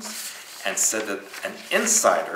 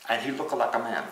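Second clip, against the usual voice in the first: mock Korean accent; 2 semitones higher, faster than usual. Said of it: "say it in Korean accent".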